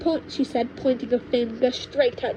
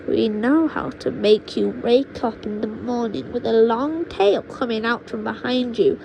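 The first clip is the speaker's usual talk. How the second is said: witch grandma boasting; 4 dB louder than usual. Acted. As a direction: savour each dark word. Witch grandma menacing George.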